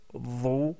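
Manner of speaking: "dhu" with a voiced th and a rounded u; Arabic with dhamma. Shown as a demonstration. Teacher voweling the letter with dhamma for students.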